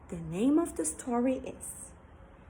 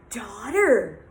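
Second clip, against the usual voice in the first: shocked gasp; 4 dB louder than usual. Acted. Father shocked.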